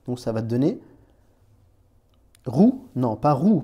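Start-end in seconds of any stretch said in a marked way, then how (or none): 2.4-3.6 roux, first plain then with a rolled R. Shown as a demonstration. Teacher contrasting roux with and without a rolled R. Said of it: "puisqu'il faut rouler le R".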